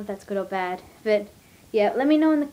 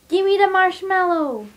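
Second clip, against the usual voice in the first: shout; 8 semitones higher, 6 dB louder than usual. Real, not acted. Demanding marshmallows from friend.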